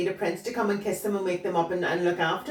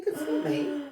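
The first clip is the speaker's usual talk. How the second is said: usual speaking voice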